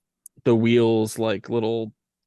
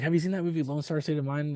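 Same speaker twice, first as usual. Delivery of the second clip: imitating a Georgia accent, higher pitch; 5 semitones higher, 4 dB quieter, faster than usual. Tire shop guy recommending a movie, mock Georgia accent. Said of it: "in his thick Georgia accent".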